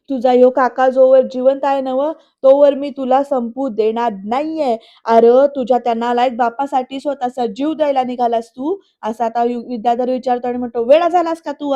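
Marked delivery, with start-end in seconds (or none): 0.1-8.7 loud, firm retold scolding from the uncle. 10.8-11.7 high, loud retold yell. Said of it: "पृथ्वीला ओरडतोय".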